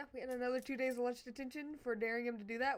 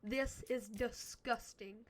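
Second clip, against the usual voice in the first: slow disgusted; much slower than usual. Retold or imitated. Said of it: "she was like".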